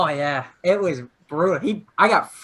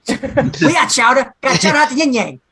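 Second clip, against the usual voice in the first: mock Boston accent; 4 semitones higher than usual. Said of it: "Did you say chowder?".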